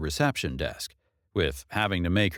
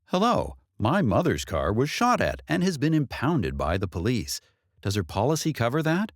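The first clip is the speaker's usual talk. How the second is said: bright, raised customer-service phone voice, higher; polite phone voice; 4 semitones higher than usual. Pretend. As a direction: pretend you're calling the insurer, overly polite. Imagined call to insurance company.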